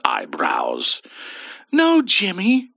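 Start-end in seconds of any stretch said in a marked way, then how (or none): 1.7-2.7 a hint of a firm refusal, higher; stern. A narrator's reading. Ethel refusing the young man, mildly stern. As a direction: say no firmly but lightly. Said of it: "Ethel sternly replied".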